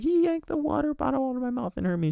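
put-on high, whiny little-girl voice; imitating the hurt girl. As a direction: pitch it up like a tattling kid. Crying girl voiced in a story.

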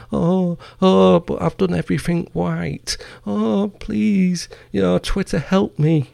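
high, whiny mock plea, pitched well up; mock crying whine. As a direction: mimic a crybaby begging Twitter for help. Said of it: "He's crying".

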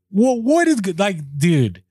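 can't believe he just left; shocked disbelief. Retold or imitated. Caller watching the manager drive off, stunned disbelief.

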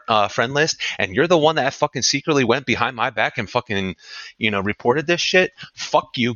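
real angry rant, cursing someone out; fed up and lashing out; heated rant. Real, not acted. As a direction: tell them off, pitch climbing on the accusations. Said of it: "I'm already fucking heated".

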